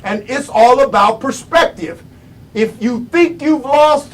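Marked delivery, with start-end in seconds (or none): 2.5-4.1 higher, suspended first half; raised setup. Real, not acted. Speaker posing a condition to listeners, raised. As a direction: lift it and leave it hanging. Sets up a contrast in two halves.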